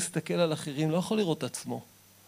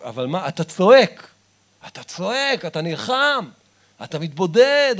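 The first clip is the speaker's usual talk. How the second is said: loud, punchy repeated calls; preaching in rising bursts; rousing preaching; 2 semitones higher, 5 dB louder than usual. Acted. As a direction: hammer each phrase to wake them up. Urging the listener to cry out.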